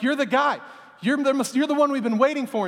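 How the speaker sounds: eager, high exclamation; excited Peter. Retold or imitated. Disciple Peter telling Jesus he's the one, excited. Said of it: "so Peter's like".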